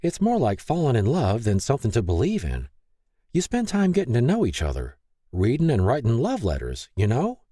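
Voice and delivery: lightly voiced, coax her toward faith; a hint of motherly cheer; kind older friend Mary. Mary counsels Lay.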